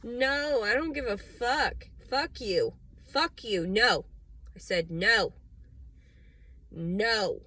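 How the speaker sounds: loud, furious yelling at nobody; angry shouting. Real, not acted. Ranting at the world, loud furious shouts. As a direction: spit out each no and curse.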